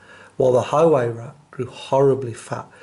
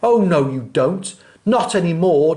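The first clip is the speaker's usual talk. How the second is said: declaring; 3 semitones higher, 6 dB louder than usual. Acted. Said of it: "declared the highway thief".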